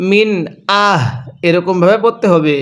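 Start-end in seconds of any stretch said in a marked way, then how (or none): 0.1-1.0 আহ with a voiced throaty h, no breath; throat h sound. Shown as a demonstration. Teacher shows the throat h in আহলিল. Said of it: "গলা দিয়ে এক প্রকার শব্দ হবে".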